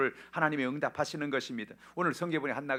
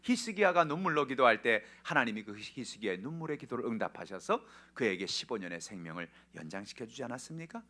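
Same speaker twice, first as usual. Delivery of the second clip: ordinary talk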